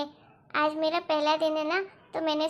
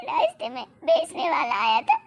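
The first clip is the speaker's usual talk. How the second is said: high, loud wailing apology; tearful pleading; 12 semitones higher, 5 dB louder than usual. Acted. Daughter-in-law begging father-in-law's forgiveness, crying. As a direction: plead through tears.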